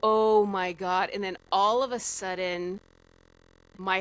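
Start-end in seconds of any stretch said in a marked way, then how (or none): 0.0-1.1 slow, loud retold exclamation; stunned realization. Dreamer hears grandma's question, slow stunned realization. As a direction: draw it out as it dawns on you.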